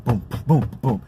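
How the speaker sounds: "boom, boom, boom" as a drumbeat; beat imitation. Shown as a demonstration. Showing how the block starts dancing, drumbeat sounds. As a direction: tap out a drum beat with the voice. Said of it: "all you gotta do is like this here".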